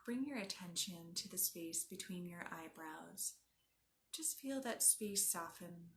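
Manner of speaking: unhurried yoga nidra guide; guided meditation. Acted. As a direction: guide them gently inward, leaving space after each instruction.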